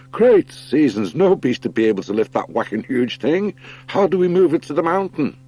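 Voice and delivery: high, loud amazed voice; astonished character. Acted. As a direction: gasp at the huge rope, then ask. Figure marvels at the rope.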